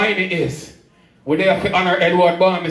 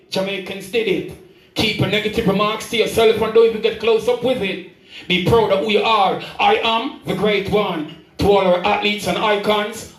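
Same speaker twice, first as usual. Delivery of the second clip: rhythmic praise-poem delivery; spoken-word poem; 2 semitones higher than usual. Acted. Poet honouring Jamaican athletes before an audience, spoken-word recital. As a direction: declaim each rhymed line to the crowd.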